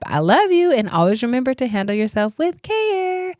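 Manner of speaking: bright, affectionate goodbye; lovey dovey. Real, not acted. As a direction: blow the audience a kiss. Affectionate sign-off to listeners.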